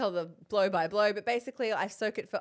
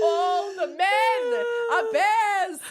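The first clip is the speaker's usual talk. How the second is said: hysterical laughing; 9 semitones higher, 7 dB louder, slower than usual. Real, not acted. Laughing hysterically at chaotic morning.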